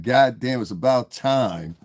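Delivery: drawn-out, emphatic relief; retold exclamation. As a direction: stretch it out like a long-awaited cheer. Retold reaction at a concert.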